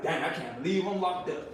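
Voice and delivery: very soft murmur to himself; quiet musing. Retold or imitated. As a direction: murmur it alone at a night window. Talking alone at night by the window.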